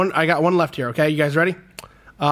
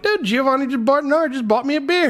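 high, thrilled exclamation; bursting with excitement; telling everyone who bought the beer, thrilled; excited; 11 semitones higher than usual. Retold or imitated. Excited retelling at the bar.

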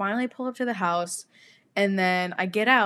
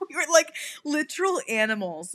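laughing; 3 semitones higher than usual. Real, not acted. Laughing at the memory.

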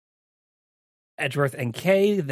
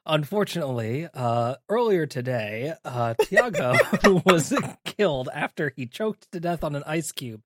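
news anchor; 3 semitones higher, 3 dB louder than usual. Pretend. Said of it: "News at eleven".

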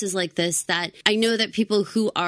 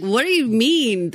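puzzled quote; 3 semitones higher, 5 dB louder, slower than usual. Retold or imitated. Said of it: "I'd have been like".

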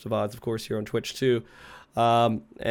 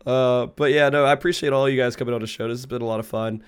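sick voice. Real, not acted. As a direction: voice worn down by a cold. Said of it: "for putting up with my sick voice".

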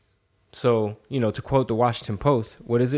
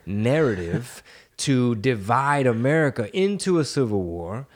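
mysterious spy voice. Retold or imitated. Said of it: "That was my Eric Swalwell impersonation".

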